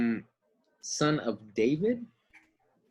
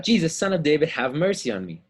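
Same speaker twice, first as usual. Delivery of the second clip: mock shout; 3 semitones higher than usual. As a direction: shout it out like a blind beggar. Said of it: "he begins to shout out".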